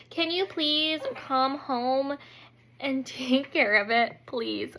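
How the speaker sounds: slow, drawn-out plea; beg, stretching out the words; pleading. Retold or imitated. Panicking wife begging husband to come home, slow pleading.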